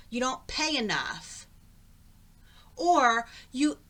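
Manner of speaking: angry rant. Real, not acted. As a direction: rant at the company. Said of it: "It just really made me angry".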